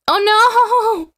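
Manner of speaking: shocked high yelp of sympathy; surprised. Real, not acted. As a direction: gasp it out in dismay. Reacting to chat's burned finger.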